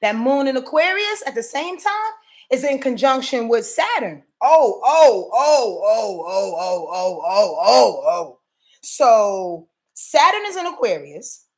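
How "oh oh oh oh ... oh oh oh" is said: excited oh-ing. Real, not acted. Excited reaction to Saturn conjunction.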